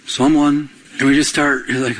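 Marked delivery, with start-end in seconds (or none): 0.1-0.7 bored reading. Pretend. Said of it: "How boring would it be".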